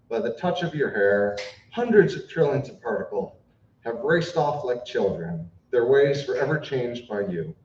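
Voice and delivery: measured, earnest recitation; solemn eulogy reading. Real, not acted. Friend reading a serious tribute at a funeral, solemn and sincere. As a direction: read it as a heartfelt tribute, phrase by phrase.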